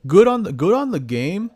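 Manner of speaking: excited praise. Real, not acted.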